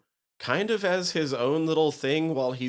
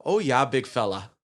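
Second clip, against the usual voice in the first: mock sultry come-on; 4 dB louder than usual. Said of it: "all you hear is".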